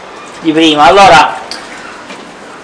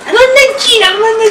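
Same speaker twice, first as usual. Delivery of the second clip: silly high voice; 13 semitones higher than usual. Acted. Voice raised to make her laugh.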